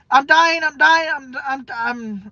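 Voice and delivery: retelling a panic attack in the ER, panicked; panicked cry. Retold or imitated. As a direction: blurt it out in rising panic.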